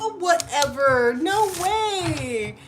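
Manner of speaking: high and loud, squealing her friend's name; overjoyed to see a friend show up in her live; thrilled surprise. Real, not acted.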